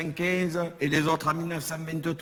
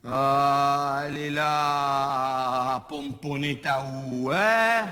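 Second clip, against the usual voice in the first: voisine caricaturée; 3 dB louder, much slower than usual. Acted.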